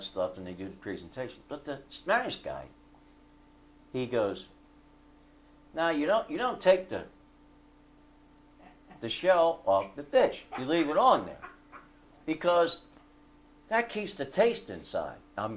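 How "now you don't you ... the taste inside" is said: raised, insistent retold voice; emphatic correction. Retelling a cook correcting a rival on the shrimp, emphatic. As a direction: lay down the cooking rule, pitched up.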